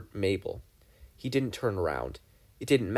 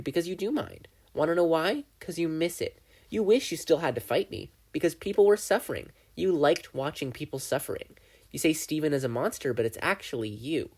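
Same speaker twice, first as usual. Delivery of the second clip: lightly voiced gleeful demon, a bit higher; Bill the demon; 6 semitones higher than usual. Bill accuses Dipper.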